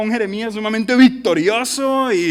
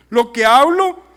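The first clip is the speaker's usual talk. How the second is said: sarcastic; 3 semitones higher, 6 dB louder than usual. Acted. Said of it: "estoy siendo sarcástico".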